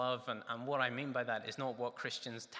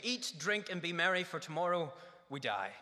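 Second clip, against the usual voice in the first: higher and louder, a carefree shout; festive proclamation; 5 semitones higher, 5 dB louder than usual. Retold or imitated. Preacher voicing carefree Epicureans, festive shout. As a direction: toast it like a reveller raising a glass. Quoting the Epicureans' party motto.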